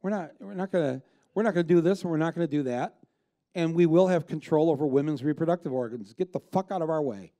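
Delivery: imitating a blunt aggressive opponent; hammed-up defiant snarl; mock aggressive right. Mocking how the other side talks. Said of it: "their side is like".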